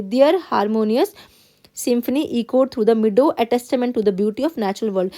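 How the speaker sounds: slow, careful classroom read-aloud; teacher reading a text to the class. Acted. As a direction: read the passage word by word, x0.3 pace. Teacher reads passage aloud.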